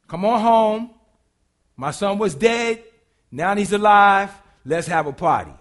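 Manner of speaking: a father celebrating out loud; loud, happy welcome home; joyful welcome. Retold or imitated. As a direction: call him home, loud and glad.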